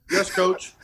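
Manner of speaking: mock-meek reply, breaking into laughter; laughing through it. Punter answering his coach, laughing. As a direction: giggle out a sheepish yes.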